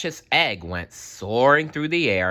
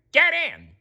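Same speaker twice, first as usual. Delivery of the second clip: higher, louder call; 4 dB louder than usual. A narrator's reading. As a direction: urge them in. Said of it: "he called".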